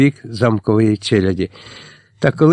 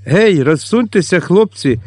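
bold, higher call to the lads; a lively call to make room; dashing shout; 6 semitones higher than usual. A narrator's reading. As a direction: shout it out with swagger. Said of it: "хвацько гукнула Дарина".

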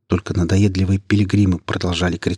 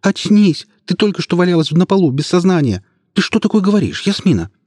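much higher, pleading shouts; desperate shouting; 11 semitones higher, 4 dB louder than usual. A narrator's reading. Ilya, shaking Yasmina, shouts much higher in despair. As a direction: shake her awake with your voice. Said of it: "в отчаянии заголосил Илья".

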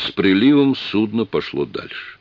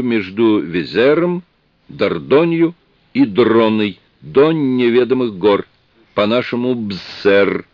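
slow, raised, formal alien voice; solemn chieftain; 4 semitones higher, 4 dB louder, slower than usual. Acted. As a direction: proclaim the treaty slowly and grandly. Alien chief's solemn treaty speech.

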